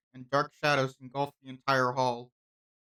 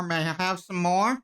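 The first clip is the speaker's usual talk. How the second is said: louder insistent ask; 3 semitones higher, 5 dB louder than usual. Acted. Asking louder for water.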